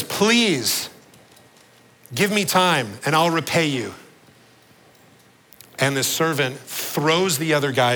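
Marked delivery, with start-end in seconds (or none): 0.0-3.9 begging debtor. Acted. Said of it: "falls on his knees and begs".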